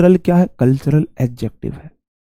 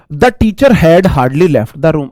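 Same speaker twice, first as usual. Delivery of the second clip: slow sentence reading; much slower than usual. Shown as a demonstration. Reads example sentence.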